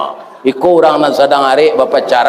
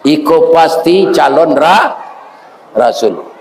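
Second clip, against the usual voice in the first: weeping monk; 4 semitones lower than usual. Acted. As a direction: let the awe choke your words. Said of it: "Menangis pendeta Wairah".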